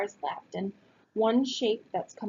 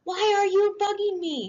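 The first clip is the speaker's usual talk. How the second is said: put-on high, loud boy's shout; angry shout; 11 semitones higher, 5 dB louder than usual. A narrator's reading. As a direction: shout at the pest. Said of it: "he shouts".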